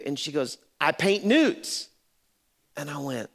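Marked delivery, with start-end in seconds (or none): 0.8-1.9 higher, slow, drawn-out NUDES; repeating for clarity. Retold or imitated. Hairdresser repeats to pastor who couldn't hear, higher and drawn out. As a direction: say it again slowly with pitch lifted. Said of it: "I couldn't hear you".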